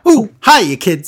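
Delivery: put-on high, loud creaky old man; cackling old vampire grandpa; Grandpa Munster voice. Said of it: "Grandpa from the Munsters".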